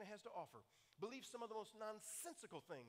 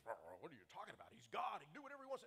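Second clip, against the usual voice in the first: angry retort. Retold or imitated. Retelling the angry man who argues about God, indignant. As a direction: play the offended man snapping back. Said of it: "now this guy got mad at me".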